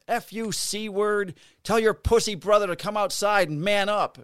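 high, forceful mock tirade; retold angry retort. Officer demanding her brother come out, retold angry retort. Retold shouting match with dog owner.

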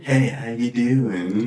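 very slow, drawn-out greeting; fake friendly cashier. Co-host imitates checkout workers, slow fake-friendly voice. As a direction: stretch out a mock customer-service hello.

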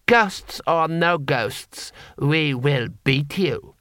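very slow, icy certainty; cold lord. Acted. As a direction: promise defeat calmly. Lord Hong threatens.

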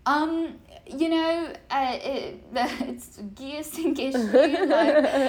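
imitating a flustered, stumbling answer; Max Verstappen, thrown off. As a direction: fumble for words, completely thrown. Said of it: "he was just so thrown off".

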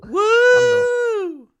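high, loud whoop; loud cheer. Pretend. Mock cheer being single.

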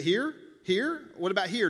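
put-on teenager needling dad over the line; teen testing limits. Teenager testing the line with dad, rising questions. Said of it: "they're like this".

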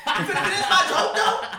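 loud, high, laughing challenge; hammed-up heckler put-down; mock confrontation. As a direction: imitate a comic snapping at a heckler. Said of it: "you were like".

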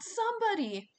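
very high, loud plea; Piper yelling. A narrator's reading. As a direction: call desperately for rescue. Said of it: "Piper yelled".

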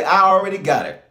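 bold claim. Shown as a demonstration. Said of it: "I need you to say it like that".

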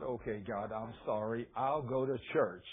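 low, hushed, sheepish repentance; contrite apology. Retold or imitated. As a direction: give in softly, like a penitent. Friend repents, retold.

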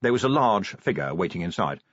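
plain reading voice

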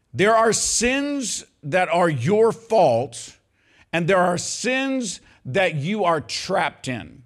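very slow, weighted phrases; slow emphatic teaching. Real, not acted. Preacher slowing down so the church takes it in. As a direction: lay each word down deliberately.

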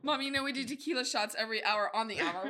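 laughing. Pretend. Joking to mom.

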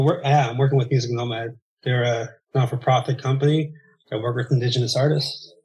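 breathless after running; panting a little between words; out of breath. Real, not acted. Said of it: "Sorry, I'm out of breath 'cause I have to run".

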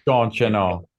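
lightly mocked Minnesotan accent; Minnesota accent. Co-host chimes in while they discuss cartoonish accents, mock Minnesota accent. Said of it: "a cartoonish kind of accent".

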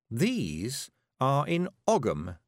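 slow, pointed needling through a smile; nasty smile. Acted. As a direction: savour it with sly malice, slowly. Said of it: "smiling nastily at Zack Zack".

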